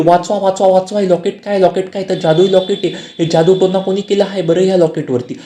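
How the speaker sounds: a light retold call for help, not a full scream; हलकीशी ओरडत मदत मागणे; retold cry for help. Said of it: "असं नर्मदा फार मोठमोठ्याने बोलू लागत असते".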